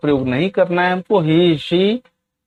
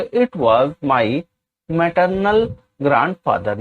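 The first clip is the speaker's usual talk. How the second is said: each word spaced out slowly for students to copy; very slow, deliberate classroom dictation; much slower than usual. Shown as a demonstration. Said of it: "teacher dictates English sentence".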